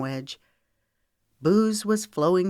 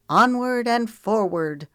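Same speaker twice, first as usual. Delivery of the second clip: higher, slow rallying cry; 5 semitones higher, 4 dB louder than usual. A narrator's reading. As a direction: draw it out high as a rallying call. Character rallies her friend.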